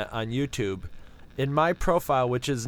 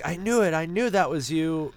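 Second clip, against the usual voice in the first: excited fans; 3 semitones higher than usual. Retold or imitated. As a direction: crow it like you always knew. Fans insist it is Palin.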